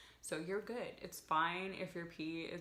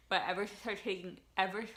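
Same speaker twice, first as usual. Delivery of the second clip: talking with a retainer in; words slurred by a retainer; wearing a retainer; faster than usual. Real, not acted. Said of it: "I have my retainers on and I can't talk".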